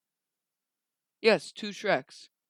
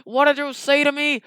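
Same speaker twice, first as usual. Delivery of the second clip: high, loud outraged shriek; Lord Farquaad; 5 dB louder, slower than usual. Acted. Lord Farquaad outraged at his mirror, high loud shrieking. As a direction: shriek in offended disbelief. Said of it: "says his magic mirror".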